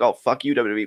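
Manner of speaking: offhand, passing curse; frustrated throwaway. Retold or imitated. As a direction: toss it off as a habitual gripe. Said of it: "as kind of a throwaway".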